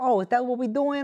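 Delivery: put-on strong New Jersey accent. Retelling a scene, quoting a prostitute in a super Jersey accent. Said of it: "super jersey accent prostitute".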